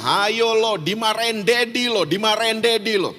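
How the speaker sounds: put-on high, chanted child's taunt; teasing intimidation. Older sister warning little brother about Daddy, teasing. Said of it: "kakaknya mulai intimidasi dia".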